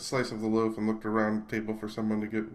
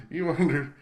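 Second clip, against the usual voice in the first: higher, louder Southern buddy voice; Southern drawl; 6 semitones higher, 5 dB louder than usual. Acted. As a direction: lean into wandered, drawling. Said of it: "I should do the voices".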